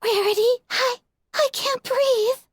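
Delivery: high, slow, tearful whimper; crying, barely getting it out. A narrator's reading.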